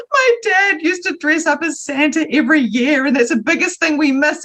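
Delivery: a touch of weeping through the words; crying friend. Retold or imitated. Friend tearfully explains her dad's Santa, crying. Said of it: "she burst out crying".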